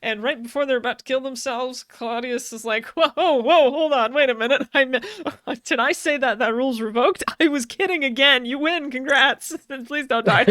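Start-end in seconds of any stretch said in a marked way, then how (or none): 2.9-10.4 laughing mock announcer. Retelling Claudius reversing the rule.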